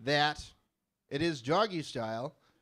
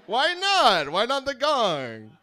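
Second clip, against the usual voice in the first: mock pleading; 8 semitones higher, 8 dB louder, slower than usual. Pleading with heckling crowd.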